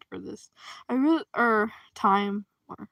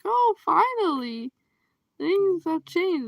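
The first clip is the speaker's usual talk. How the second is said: mock relief; 8 semitones higher, 3 dB louder, slower than usual. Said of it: "so you can be like".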